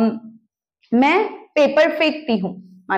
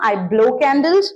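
slow model sentence; much slower than usual. Shown as a demonstration. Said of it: "teacher modelling sentence".

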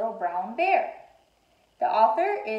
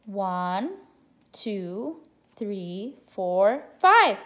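excited counting; much slower than usual. Shown as a demonstration. Counting aloud with children.

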